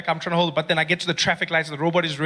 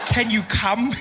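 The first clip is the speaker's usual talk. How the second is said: put-on overly polite kid; 5 semitones higher, much slower than usual. Too-polite brother asks if he can come, high kid voice. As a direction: ask far too politely. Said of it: "he's too polite".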